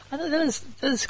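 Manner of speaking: real laugh into the words. Real, not acted. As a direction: laugh it out, then talk. Laughs at own joke.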